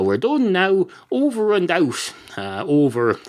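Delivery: a hint of radio operator; radio sign-off. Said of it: "telling over a shortwave radio".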